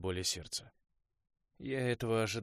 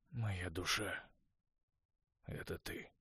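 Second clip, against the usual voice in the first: softer, barely voiced line; quiet voice; 5 dB quieter, much slower than usual. A narrator's reading. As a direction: say it almost under your breath. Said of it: "произнесённые тихим голосом". (Конор тихо говорит Уэсу, почти беззвучно)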